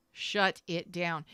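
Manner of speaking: "Shut it down" slow and deliberate; with emphasis. Shown as a demonstration. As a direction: space out each word of "Shut it down" for weight. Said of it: "With emphasis".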